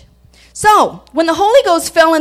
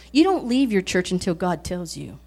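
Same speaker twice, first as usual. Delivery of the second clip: put-on stern little girl; 7 semitones lower, 8 dB quieter than usual. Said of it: "she said it with such sternness".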